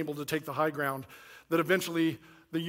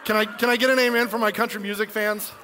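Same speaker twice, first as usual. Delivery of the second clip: crowd call; 4 semitones higher, 5 dB louder than usual. Real, not acted. Calls for amen from crowd.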